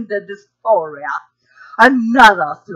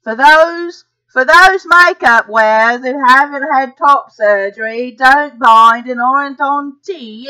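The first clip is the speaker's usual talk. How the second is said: put-on Australian accent. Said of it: "excuse me for my Australian accent".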